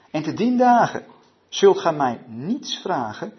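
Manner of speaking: slow, emphatic Bible reading; deliberate declaiming with weighted key words; scripture reading. A narrator's reading. Preacher reads Jesus' promise to the group, solemn scripture reading.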